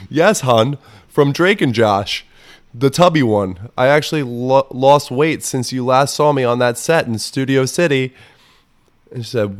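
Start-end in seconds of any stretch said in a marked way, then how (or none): 0.1-8.1 higher, louder sugary text voice; hammed-up fond tone; mock sweet. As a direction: purr it like an old friend. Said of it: "And I said".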